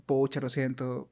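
voz grave, suave y lenta; da la mala noticia con pena; doctor apenado. Pretend. (doctor da la mala noticia, apenado)

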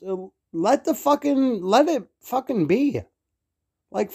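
irritated, building rant with pitch jumping up; real worked-up rant. Real, not acted. Podcaster telling Hollywood to stop the remakes, worked-up rant. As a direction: let real exasperation push the pitch up. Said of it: "I'm fucking mad right now".

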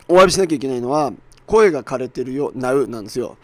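hoarse, worn-out voice after shouting. Real, not acted. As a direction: speak with a hoarse, strained throat. (声が枯れた話し方)

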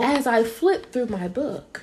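slow, deliberate mock-author delivery; B Simone book voice. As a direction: measure out each word like a reading. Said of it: "voice right now".

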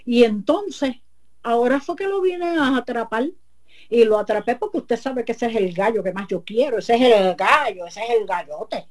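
hint of a man spinning a tall tale; husband's voice. El marido se excusa. (el marido se excusa con la comay, voz algo más aguda)

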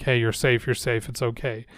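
mock-coddle a bumped toddler; soothing parent. Coddling parent soothes hurt child.

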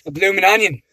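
lightly put-on Australian; Australian accent. Pretend customer ordering at Outback, light Australian accent. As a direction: order like a pretend Aussie, hesitating. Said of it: "talk in an Australian accent".

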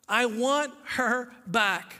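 slow, earnest repeat of want; slow heartfelt plea. Acted. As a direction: say it slowly, from the heart, leaning on want. Husband repeats his plea.

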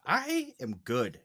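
mock sincerity. Mock-sincere defense of nephew.

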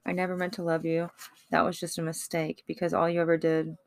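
hushed spoken-word kiss-off; bitter kiss-off. Acted. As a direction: spit it out quietly. Angry poem read softly.

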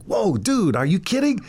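high, anxious whispering-to-friend voice; nervous younger self. Retold or imitated. Young man embarrassed in a diner, pleading with his mentor. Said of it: "and I'd be like".

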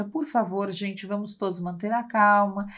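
lightly voiced calm organizer while the world falls; mock calm orderly person. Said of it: "eu adoro falar assim".

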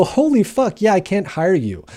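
high, loud startled rejection; shocked refusal. Retold or imitated. Life coach hearing his felony past, shocked and refusing. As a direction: recoil and turn him down. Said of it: "Most people go".

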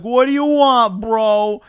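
loud, high Boston vendor voice; bad Boston accent. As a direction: bark it out in a hammed-up Boston accent. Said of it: "That's my best Boston".

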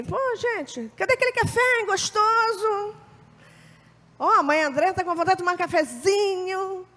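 high, sing-song wheedling ask; coaxing for coffee. Retold or imitated. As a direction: sweet-talk them into a coffee. Mãe André coaxing for coffee.

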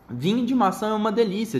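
high, savoring badger. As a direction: relish every word like a badger. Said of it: "disse seu texugo".

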